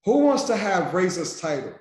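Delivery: rallying call-out to the crowd. Real, not acted. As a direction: pump the audience up. Hyping crowd call and response.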